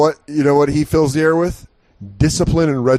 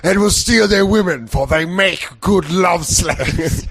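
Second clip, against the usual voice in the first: higher, slow booming Viking boast; Viking warlord voice; 5 semitones higher, slower than usual. Retold or imitated. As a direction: declaim like a movie Viking. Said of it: "they always say it like Viking movies".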